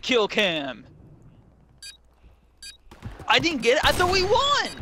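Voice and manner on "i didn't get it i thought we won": high frustrated outcry; upset gamer disbelief; raging gamer. Real, not acted. Frustrated after game loss.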